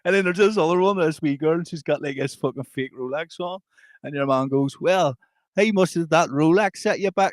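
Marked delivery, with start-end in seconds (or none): 4.8-7.3 higher, badly faked Scottish accent; hammed-up Scottish with an accidental Indian lilt; muddled Scottish accent. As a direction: imitate a Scot, drifting towards Indian. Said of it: "what accent that was you were doing".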